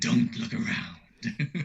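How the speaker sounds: sinister devil character voice. Doing an impression of the Satan guy speaking to Toby: devil character voice. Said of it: "I could do an impression if you want".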